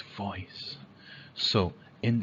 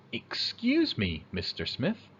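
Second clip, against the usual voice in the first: polite request. Shown as a demonstration. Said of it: "politely waits".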